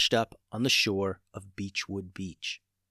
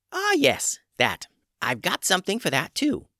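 witch voice; 10 semitones higher than usual. A narrator's reading. Witch Tubes, knowing.

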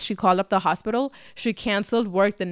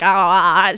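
imitated loud "ah"; 5 dB louder than usual. Imitating mom's cry.

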